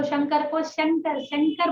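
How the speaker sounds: शंकर said as sankar with s; शंकर as Telugu speakers say it. Shown as a demonstration. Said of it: "उसको स बोलते हैं".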